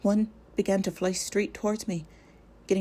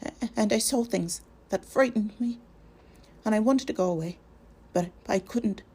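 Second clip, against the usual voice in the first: frightened stammer, higher and halting; 4 semitones higher than usual. Acted. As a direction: stumble over the words, scared. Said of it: "stammered Pippin".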